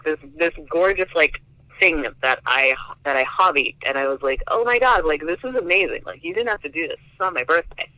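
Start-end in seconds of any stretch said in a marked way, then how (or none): 4.5-7.9 much higher, bright gushing amazement at a surprise gift; squealy thank-you, half re-enacted; retold delighted gasp. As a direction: relive the thrill of being handed a present. Retelling her reaction to the gift.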